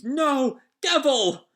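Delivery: high-pitched mock scream; Usopp. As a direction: cry out like a desperate fighter. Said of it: "Usopp screams".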